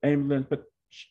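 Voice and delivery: put-on a young man scrambling to reassure his father; flustered rushed answer. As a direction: blurt it all out before he can react.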